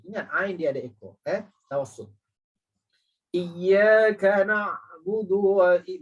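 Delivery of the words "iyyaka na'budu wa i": slow, chanted, a bit louder; Quran recitation. Shown as a demonstration. Teacher reciting the fifth verse for the class. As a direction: recite the verse slowly, drawn out. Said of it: "lepas tu kita baca na'budu".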